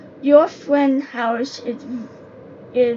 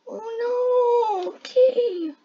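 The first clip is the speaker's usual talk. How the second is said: startled gasp; 10 semitones higher, much slower than usual. Real, not acted. Gasp at a scare in game.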